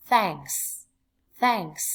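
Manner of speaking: careful model pronunciation of "Thanks"; phát âm mẫu. Shown as a demonstration. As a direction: say "Thanks" distinctly, falling at the end. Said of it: "lưu ý cách phát âm". (đọc mẫu "Thanks" rõ ràng, xuống giọng)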